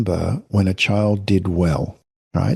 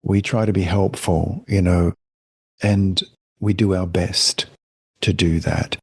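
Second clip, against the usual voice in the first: gentle parent phrasing. Shown as a demonstration. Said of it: "So I prefer to say".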